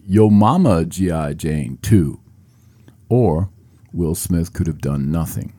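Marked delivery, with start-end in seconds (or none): 0.1-2.2 mock heckle. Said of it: "He could have heckled Chris with something like".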